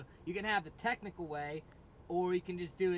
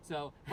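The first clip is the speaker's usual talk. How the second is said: scream; 3 semitones lower, 4 dB louder than usual. Shown as a demonstration. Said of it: "keep pushing".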